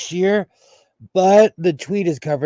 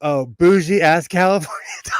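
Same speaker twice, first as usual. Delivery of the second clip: laughing shout; 5 dB louder than usual. Real, not acted. Mocking fancy California dogs.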